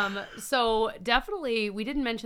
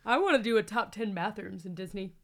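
talking through a yawn; words stretched by a yawn. Real, not acted. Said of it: "did you hear that yawn?".

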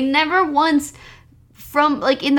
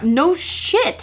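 mock indignation; 4 semitones higher than usual. Own indignant reaction to film line.

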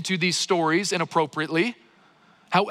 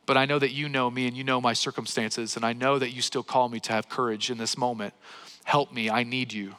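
a lightly voiced, softening prayer that grows softer; a hint of a hushed personal prayer; quiet prayer; 4 semitones lower, 3 dB quieter than usual. Shown as a demonstration. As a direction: pray it gently, as if alone with God. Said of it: "And so I begin to pray then".

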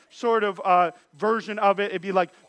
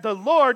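'the Lord' pushed louder; stress on the Lord; 4 dB louder than usual. Shown as a demonstration. Preacher explaining all caps, stressing the Lord. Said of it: "in all caps".

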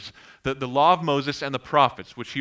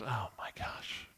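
breathy, bored eye-roll groan; deflated, unimpressed mutter; unimpressed sigh; 5 semitones lower, 15 dB quieter than usual. Retold or imitated. Wife rolling her eyes at husband's trivia, unimpressed and breathy. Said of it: "she just rolls her eyes and goes".

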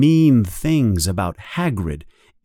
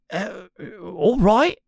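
hesitant, higher-pitched agreement; uncertain, pitched up; taken aback; 10 semitones higher than usual. A narrator's reading. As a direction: agree haltingly, caught off guard. Ron is shocked, then agrees.

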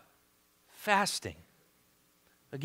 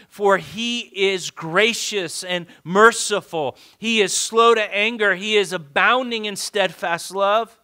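preacher declaring a Bible verse; emphatic scripture reading; 4 semitones higher, 7 dB louder than usual. Acted. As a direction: read it out firmly, leaning on key words.

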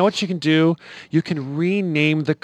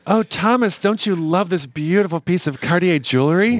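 femme fatale; 3 semitones higher than usual. Acted. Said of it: "prompting Thomas to say wow".

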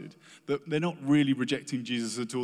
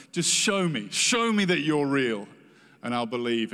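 pleading to God; 5 dB louder than usual. Acted. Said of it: "have you ever asked God that?".

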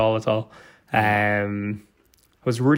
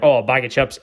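mock impression; 2 semitones higher, 3 dB louder than usual. Dad echoing the counter woman's order, lightly mocking impression. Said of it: "making fun of her".

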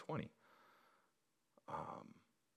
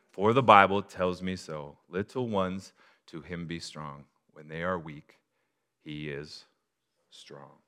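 spoken-word hymn; slower than usual. Shown as a demonstration. Pastor speaking the hymn instead of singing it. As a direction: recite it like a poem, then let it sink. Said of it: "spoken word this thing".

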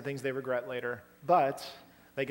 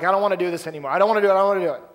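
mock panicked whine, louder; panicky protest; 3 semitones higher, 9 dB louder, much faster than usual. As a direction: play the scared kid refusing, pleading louder each time. Acting out terrified climber's protest.

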